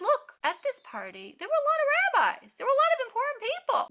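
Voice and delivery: high, loud, indignant outburst; furious rant. Acted. Bar Kamsa fuming about the watching rabbis, furious rant. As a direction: rage at the humiliation.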